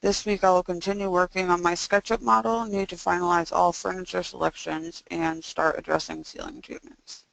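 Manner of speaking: stiff jaw, mouth barely opening; speaking after jaw surgery. Real, not acted. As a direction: talk with stuff still in the mouth. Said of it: "so that's why I sound this way".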